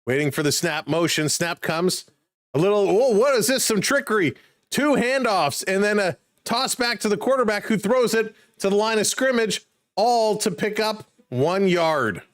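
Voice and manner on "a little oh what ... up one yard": rising pitch, amazed at the trick play; surprised excitement. Real, not acted. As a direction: sound caught off guard and thrilled.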